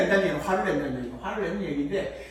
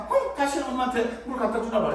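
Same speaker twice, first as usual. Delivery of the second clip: higher-pitched mock indignation; acted, wounded little protest; hurt child; 5 semitones higher than usual. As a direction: play a child in a huff at mum. Acted hurt child vowing revenge.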